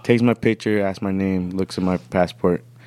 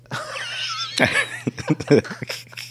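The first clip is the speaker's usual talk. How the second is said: high, airy whistling as if carefree; nonchalant high whistle. Retold or imitated. Traveler acting casual as the sniffer dog passes, nonchalant whistle. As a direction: whistle innocently to look like you don't care. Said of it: "tried to look like you didn't care".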